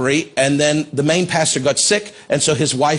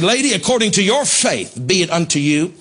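mildly raised, higher-pitched proclamation; retold raised voice; 3 semitones higher than usual. Preacher pronouncing healing on the woman, raised voice. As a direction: declare it over her, starting high. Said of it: "I raised my voice 'cause that anointing".

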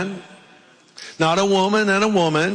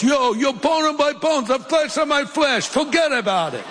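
put-on high-pitched East Coast tough-guy accent; 9 semitones higher than usual. Preacher imagining Adam from the East Coast, high East Coast accent. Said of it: "Or East Coast".

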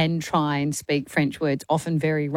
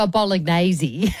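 slow, showy Italian "bolognese", amused; mock an Italian accent, drawn out; put-on Italian accent; slower than usual. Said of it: "I mean, you don't go".

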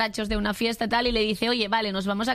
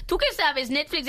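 indignant; 4 semitones higher than usual. Real, not acted. Scolding Netflix.

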